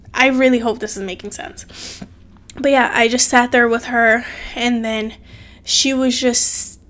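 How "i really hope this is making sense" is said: whisper. Real, not acted. Whispering it again to her viewers. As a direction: breathe it out under her breath. Repeats hope line, then whispers.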